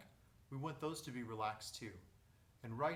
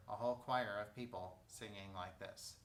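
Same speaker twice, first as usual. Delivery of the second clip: nasal voice; 4 semitones lower than usual. Shown as a demonstration. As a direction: let the sound fall into the nose. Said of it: "you get this".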